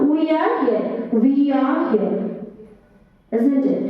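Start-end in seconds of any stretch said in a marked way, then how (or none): 0.0-1.1 imitated Bengali-accented English. Teacher showing the inexact pronunciation, imitated Bengali accent. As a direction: mimic a Bengali accent lightly. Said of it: "exactly pronunciation is not".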